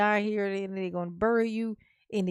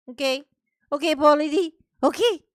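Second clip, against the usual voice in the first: excited shout-out; 5 semitones higher, 8 dB louder, faster than usual. Real, not acted. Excited call to viewer.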